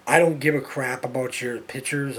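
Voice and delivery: slow and deliberate, word by word; said slowly. Real, not acted. Ranting at Facebook friends, slow and deliberate. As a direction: spell it out slowly for friends who won't listen. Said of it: "I'll say it slowly so you understand".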